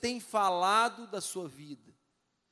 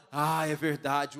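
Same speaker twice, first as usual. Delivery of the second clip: slow, lower gloomy agreement; mock agreement; 5 semitones lower, slower than usual. Church friend agrees with the problem, slow mock gloom. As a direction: drag out a sympathetic yes. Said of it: "o outro fala".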